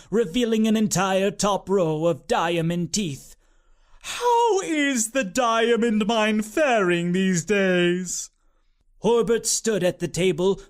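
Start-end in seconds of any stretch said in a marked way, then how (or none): 4.0-8.3 wealthy aunt. A narrator's reading. Aunt asks about the mine.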